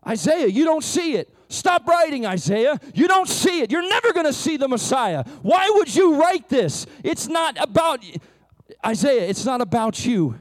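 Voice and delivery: a preacher's mock rebuke of Isaiah; scolding rebuke. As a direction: scold the prophet to his face.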